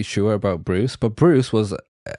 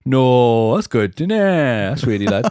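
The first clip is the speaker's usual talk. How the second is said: louder, higher, mock broad Welsh accent; 4 semitones higher, 6 dB louder, slower than usual. Showing his original Welsh accent, mock Valleys Welsh accent. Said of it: "my original accent was really, like".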